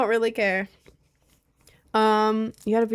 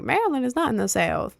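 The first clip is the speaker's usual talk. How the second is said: put-on Southern voice, pitched up; mock Southern accent; 4 semitones higher than usual. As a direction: scoff like a disbelieving Southerner. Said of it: "most Southerners are like".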